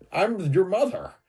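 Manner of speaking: very high, pushed put-on voice. Answering a question by imitating Caitlyn Jenner: Caitlyn Jenner impression. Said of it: "your new impression is fucking Caitlyn Jenner".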